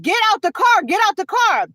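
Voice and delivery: imitated officer ordering. Officer ordering driver out of the car, imitated insistent command. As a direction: lightly act out a repeated police order.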